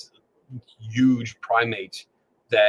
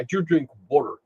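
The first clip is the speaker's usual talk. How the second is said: Philly accent; 3 semitones higher than usual. Shown as a demonstration. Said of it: "in my original Philly accent".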